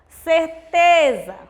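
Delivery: "Certeza" slow, with TE loud and stretched; cer-TEEE-za, punching the middle syllable of "Certeza"; stress on penultimate syllable. Shown as a demonstration. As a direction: draw out the TE in "Certeza". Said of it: "a tônica é a penúltima sílaba".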